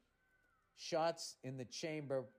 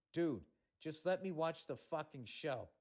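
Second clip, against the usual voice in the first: stern. Retold or imitated. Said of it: "as sternly as I could say".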